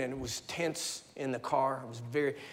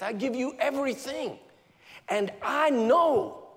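surrender prayer; 5 semitones higher, 3 dB louder than usual. Retold or imitated. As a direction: give it all up, swelling to full faith.

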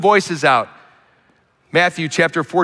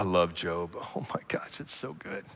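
whispered oh my gosh; soft whispered rapture; breathy delight; 8 semitones lower, 15 dB quieter than usual. Real, not acted. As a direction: hush it out in private delight. Delighted aside about Job.

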